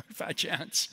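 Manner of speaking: slow scoffing aside with a laugh; dry, dismissive acted retort; a little sarcastic. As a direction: scoff it slowly, lightly sarcastic. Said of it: "she gets a little sarcastic".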